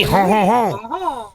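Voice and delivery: Santa laugh. Acted.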